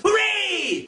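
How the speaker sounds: ordinary delivery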